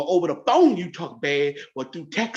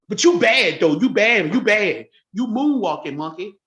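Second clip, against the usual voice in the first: mocking taunt; 2 semitones higher, 4 dB louder than usual. Real, not acted. Taunting the Army relative with loud mock praise. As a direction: jeer it at him, louder.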